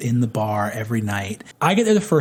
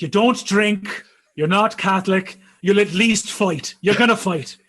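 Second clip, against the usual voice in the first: voicing ancestors; 6 semitones higher, 5 dB louder than usual. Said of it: "They're like".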